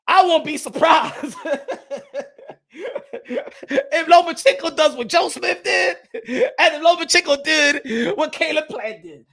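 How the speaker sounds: chuckling through the words; laughing while talking. Real, not acted. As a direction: laugh as you tease the rivals. Laughing at his own prediction.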